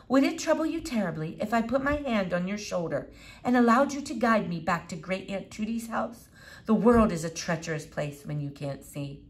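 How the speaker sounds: lightly voiced formal boy; overly polite, precocious request; a hint of a pompous little gentleman; courtly boy.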